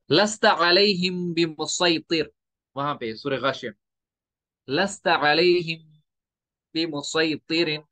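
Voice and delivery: slow recitation of बिमुसैतिरिन with saad; recited with saad. Shown as a demonstration. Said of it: "तो इधर साथ ही पढ़ना है". (बिमुसैतिरिन स्वाद के साथ धीमी तिलावत)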